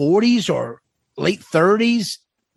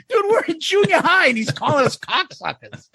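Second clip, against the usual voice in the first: ordinary talk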